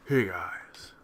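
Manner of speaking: low, breathy whisper greeting; whispered radio DJ intro. Shown as a demonstration. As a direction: whisper it like a late-night DJ. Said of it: "talk like a radio D J like this".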